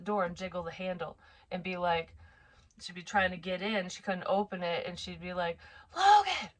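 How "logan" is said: high, loud drawn-out call of a name; mock toddler scream for someone, pitched way up; imitated screaming. Sleepwalking daughter screaming for her brother, imitated screaming. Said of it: "she'd be screaming for him".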